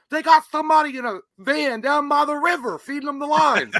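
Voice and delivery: high, loud mocking voice. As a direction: mimic the skeptic, loud and high. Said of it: "he's like".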